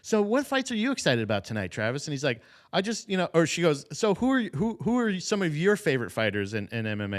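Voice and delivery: lightly hammed-up eager host; mock interviewer. Podcaster imitating the commentator questioning Travis Barker, a hint of perky host.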